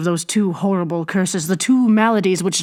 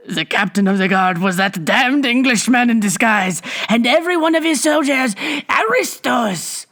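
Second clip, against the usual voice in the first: dramatic reveal; 5 semitones higher than usual. A narrator's reading. Bibot springs the reveal on the crowd, building.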